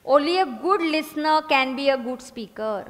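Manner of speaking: drawn out, steady; slow dictation. Shown as a demonstration. Teacher dictating a motto, slow. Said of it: "उसके आगे लिखना".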